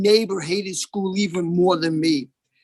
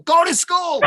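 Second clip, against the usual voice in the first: mock stern order; 8 semitones higher, 4 dB louder than usual. Mother ordering grown son.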